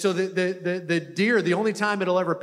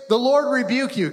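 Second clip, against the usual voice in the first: commanding rebuke; 5 semitones higher, 4 dB louder than usual. Shown as a demonstration. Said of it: "Just say those words".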